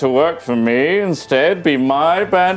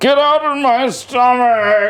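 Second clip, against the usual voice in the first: bellowing, vibrating tree voice, pitched much higher; 10 semitones higher than usual. Narrating the scene, voicing Miss Tree: bellowing Miss Tree voice. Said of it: "the bellowing vibration of the voice of Miss Tree".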